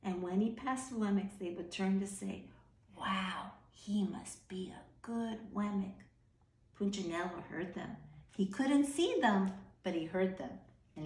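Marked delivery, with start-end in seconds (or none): 3.0-6.0 unvoiced awed whisper; admiring whisper. Wemmicks whispering in awe about Punchinello. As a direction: murmur it in hushed admiration.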